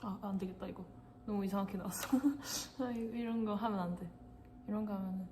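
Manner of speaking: ordinary talk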